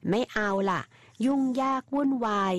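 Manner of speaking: a little huff of annoyance; lightly voiced grumble; displeased. A narrator's reading. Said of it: "ซาเนเดย์ทำเสียงไม่พอใจ".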